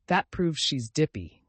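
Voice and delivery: slow gruff growl of an uncle; mild slow growl of a cross uncle. Acted. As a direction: grumble it out, slow. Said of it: "growled Uncle Benjamin".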